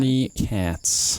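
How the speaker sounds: put-on slow, drawn-out American accent. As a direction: stretch it out like a Brit faking American. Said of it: "That's the best I can do in American accent terms".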